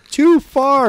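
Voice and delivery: high, loud mock shout of alarm; shocked cry. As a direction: yelp it like horrified onlookers. Onlookers react to self-stabbing.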